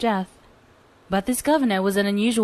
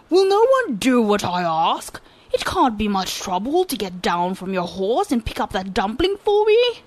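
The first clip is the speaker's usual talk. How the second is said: calling out louder; 4 dB louder than usual. Acted. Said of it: "called out still more loudly".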